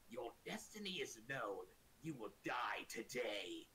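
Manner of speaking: slow, ominous daemon pronouncement; Lord of Change. Acted. Huge bird daemon to a terrified goblin, slow ominous voice. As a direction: pronounce doom slowly and weightily. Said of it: "looks down at him and says".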